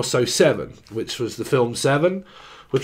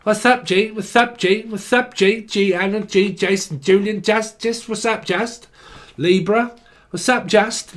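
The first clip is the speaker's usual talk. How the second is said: roadman greeting; 5 semitones higher than usual. Retold or imitated. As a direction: hail your mates like a London roadman. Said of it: "Why do people talk like that?".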